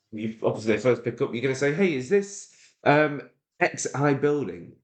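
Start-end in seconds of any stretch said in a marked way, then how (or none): 1.7-4.7 higher-pitched, friendly sales caller; light, questioning phone-call voice; cold-call opener. Shown as a demonstration. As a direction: open a cold call with an asking lift. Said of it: "I'm gonna speak exactly how I would on a cold call".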